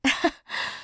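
short, breathed-out laugh; a quick huff of awkward laughter; scoffing laugh. Acted. Awkward scene with ex as client.

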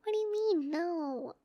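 flustered at his answer; surprised. Acted. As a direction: push back in laughing disbelief. Surprised protest to partner.

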